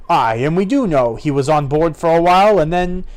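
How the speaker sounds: pirate spinning a tale; wily pirate; lightly voiced pirate. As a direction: tell it with a hint of pirate roguery.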